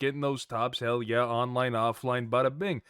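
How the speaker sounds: Joey-style Brooklyn accent. Shown as a demonstration. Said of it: "it's going more like Joey, like, Brooklyn accent here".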